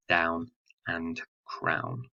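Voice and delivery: "down and crown" spoken slowly, each rhyme word stretched and stressed; slow down on "down" and "crown" so the rhyme rings; rhymes drawn out. Shown as a demonstration. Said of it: "second and fourth line rhyming with".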